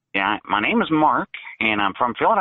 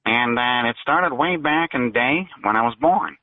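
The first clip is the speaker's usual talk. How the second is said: cartoon voice; 2 semitones lower than usual. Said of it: "You sound like a Looney Tunes character".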